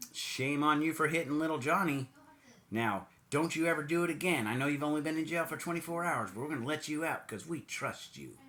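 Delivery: wag a finger like a lenient judge; the judge scolding the puncher, mock stern. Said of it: "Or it's like".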